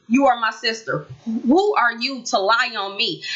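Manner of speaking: slow, calm and firm. Shown as a demonstration. Vlogger demonstrates a calm reply to the lying sister, slow and firm. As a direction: lay it down evenly, no yelling. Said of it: "You could calmly say".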